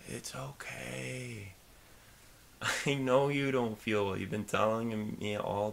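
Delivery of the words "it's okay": slow soothing. Real, not acted. Soothing sick partner.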